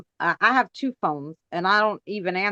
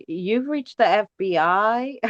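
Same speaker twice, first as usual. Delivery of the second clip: mock voicemail; slower than usual. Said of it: "change my phone message to".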